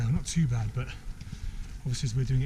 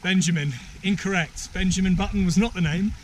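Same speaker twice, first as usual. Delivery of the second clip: higher, louder quizmaster ruling; quiz host; 6 semitones higher, 4 dB louder than usual. Pretend. Host rules a contestant's answer wrong, quizmaster voice. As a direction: announce the verdict to the players.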